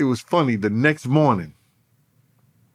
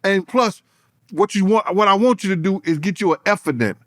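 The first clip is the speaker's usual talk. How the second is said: mocking roast; 7 semitones higher than usual. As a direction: drag it out to rub it in. His own retort, roasting rival.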